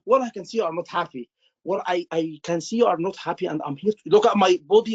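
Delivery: a hint of rote, recited empathy; robotic doctor. Shown as a demonstration. Doctor reciting empathy by rote, mock robotic. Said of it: "Not just".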